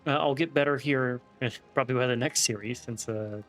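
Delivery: slight lisp from a retainer; talking with a thick retainer in; wearing a retainer. Real, not acted. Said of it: "I feel like I have a little bit of a lisp".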